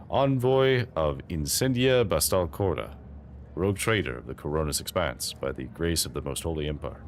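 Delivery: a lightly voiced Spanish-accented envoy, formal and humble; slight Spanish accent. Envoy formally introducing himself to the lord captain, with a faint Spanish accent. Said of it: "giving that guy a slight Spaniard accent".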